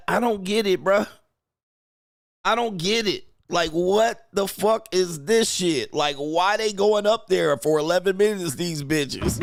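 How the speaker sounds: high, mock-baffled voice; whiny disbelief, lightly put on; mocking a confused woman. Streamer mimics Olivia Munn reacting in mock-baffled voice. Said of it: "She said".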